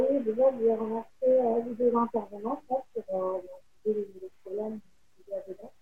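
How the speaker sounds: distant, faint voice; speaking too far from the mic. Real, not acted. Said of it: "On t'entend, on t'entend de très loin".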